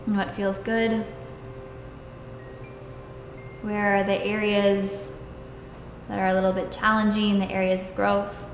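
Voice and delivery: calm, even meditation voice with long pauses; guided meditation. Acted. Yoga teacher leading students into stillness and breath, guided meditation. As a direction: guide them unhurriedly, leaving space between phrases.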